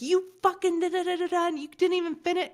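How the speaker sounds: high-pitched imitation of a yelling rant; mock yelling that tumbles into nonsense syllables. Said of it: "He was yelling at me".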